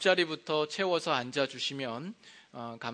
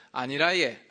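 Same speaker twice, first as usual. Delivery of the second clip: Gyeongsang dialect with 예 ending; 5 dB louder than usual. Shown as a demonstration. Pastor demonstrating Gyeongsang dialect, Gyeongsang speech. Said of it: "경상도로".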